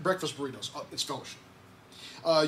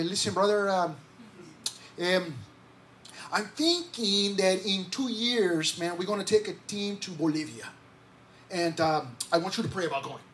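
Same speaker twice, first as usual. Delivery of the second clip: Kenyo. Retold or imitated. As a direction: draw it out with hesitant ums, mimicking a friend. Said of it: "and he talks like this".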